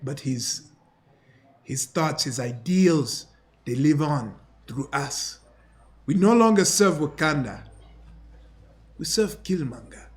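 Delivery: lightly voiced battle-hardened older man; accented fighter's voice, measured defiance; defiant Wakandan veteran. Captive refusing to work together, defiant character voice.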